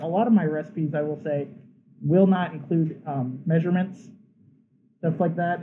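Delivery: talking through a face mask; muffled voice behind a mask. Real, not acted. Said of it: "my voice is kinda muffled".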